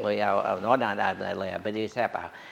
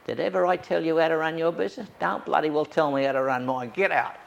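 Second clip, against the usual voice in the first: louder, fast and higher; mock angry telling-off; 6 semitones higher, 5 dB louder than usual. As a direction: throw him out, loud and fast. Priest tells off critic, retold.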